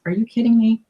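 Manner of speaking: how could you even ask, lightly acted; incredulous exclamation. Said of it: "She goes".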